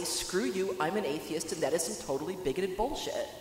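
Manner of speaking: blunt, matter-of-fact dismissal; flatly blunt. Acted. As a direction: say it flatly, with no cushioning at all. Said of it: "when to just flatly say".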